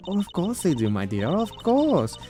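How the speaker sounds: put-on proud, doting French-accented warden; a prim warden with a French accent gushing over her family; lightly voiced French warden.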